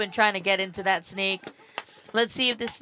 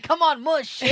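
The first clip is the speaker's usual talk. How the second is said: laughing cheer; 6 semitones higher, 4 dB louder than usual. Pretend. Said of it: "We're like".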